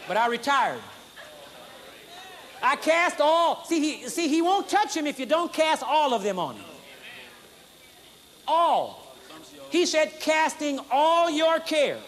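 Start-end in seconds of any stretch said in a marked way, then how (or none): 2.6-3.6 slow, higher and drawn out; deliberate scripture reading; slow scripture quote. Acted. Quoting scripture slowly. 10.2-12.0 slow, higher and drawn out; deliberate scripture reading; slow scripture quote. Acted. Quoting scripture slowly.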